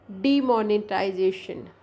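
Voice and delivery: डीमोनेटाइजेशन with a light stress on the "mo". Shown as a demonstration. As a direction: lean lightly on the M syllable in डीमोनेटाइजेशन. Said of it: "M के ऊपर जो हल्का सा एक stress".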